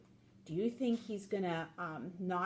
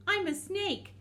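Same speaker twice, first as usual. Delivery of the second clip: snake voice; 11 semitones higher, 4 dB louder than usual. Pretend. Reader voicing snake, sudden high.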